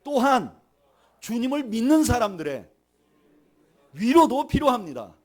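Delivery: forceful preacher's call for repetition; leading a repeat-after-me. Shown as a demonstration. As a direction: proclaim it phrase by phrase for the congregation to echo. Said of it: "한번 따라하시죠".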